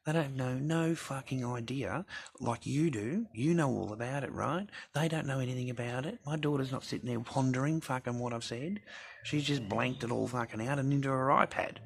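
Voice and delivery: worked up, jabbing back at the doubters; heated rant. Real, not acted. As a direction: voice up high, pushing hard at the viewers. Heated rant defending his kid.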